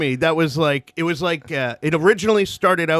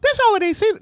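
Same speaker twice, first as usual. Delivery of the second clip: false start; much faster than usual. Shown as a demonstration. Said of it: "you're the movie trailer voice".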